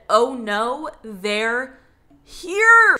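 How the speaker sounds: rising to a high, loud scare-scream on here; jump-scare the listener on the last word; shocked scream. Retold or imitated. The girl at the window when they finally come, a sudden high yell. Climax, child announces they arrived.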